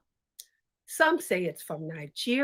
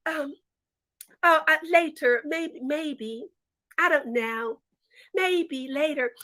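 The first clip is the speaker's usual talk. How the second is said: coy brush-off; 3 semitones higher than usual. Acted. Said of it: "I'm just gonna say".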